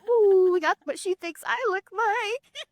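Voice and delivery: high, squealed laughing voice; amused reaction. Retold or imitated. Mom tickled by her daughter's impression of her, high laughing squeal.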